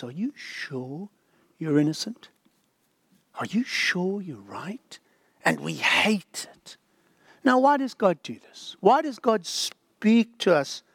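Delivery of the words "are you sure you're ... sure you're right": still small voice. Acted. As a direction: murmur the doubt like a conscience. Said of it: "the still small voice says".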